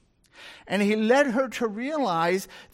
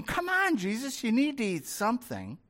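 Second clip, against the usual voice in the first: coaxing plea; 3 semitones higher, 4 dB quieter than usual. Acted. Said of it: "And they're going".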